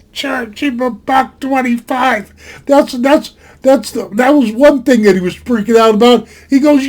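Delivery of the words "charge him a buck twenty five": breathy whisper, much softer and slower; slow amused whisper; whispered aside. Real, not acted. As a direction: hiss the punchline under your breath. Repeating the punchline under breath.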